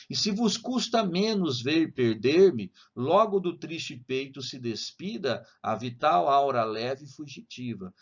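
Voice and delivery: slow poem recital; slow reading. Shown as a demonstration. Teacher reading the last tercet to students, slowly. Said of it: "vou ler devagar".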